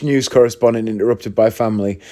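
ordinary delivery

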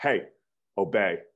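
sharp, curt, snapped-out delivery. Retelling how a father spoke to him as a child: imitating a sharp snapped command. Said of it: "he would snap at me. He would snap his fingers and he would just say".

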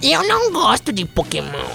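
distinct soft, sing-song different voice. Telling a story, the speaker repeats someone's words, imitating his voice. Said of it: "A voz dele era essa".

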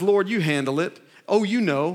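usual speaking voice

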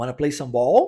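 ball said with rising intonation. Portuguese lesson on correct English question intonation: question intonation. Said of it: "com essa entonação correta de pergunta, a gente faz a frase da seguinte forma, ó".

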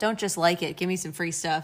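ordinary delivery

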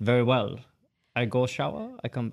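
put-on German accent. Acting out how he would answer in the retold story, in a german accent. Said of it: "he more like german he'd be like".

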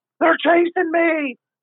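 shrill, very high, shrieking scream. Retelling how a prisoner ran through the unit: imitating someone screaming. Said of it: "running through the unit screaming".

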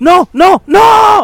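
very high, very loud shrieking screams. Retelling seeing their own body asleep in bed, retelling a scream. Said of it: "Y grité".

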